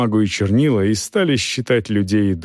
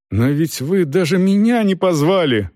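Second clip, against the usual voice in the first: higher-pitched protest; indignant; 6 semitones higher than usual. A narrator's reading. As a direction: object as if deeply slighted. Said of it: "возмущался капитан".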